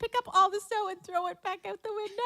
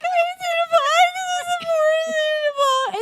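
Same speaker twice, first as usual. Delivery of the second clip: a touch of a teary, raised mom voice; imitating upset mom; 10 semitones higher, 7 dB louder than usual. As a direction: play mom pleading, a bit choked up. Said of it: "And she's like".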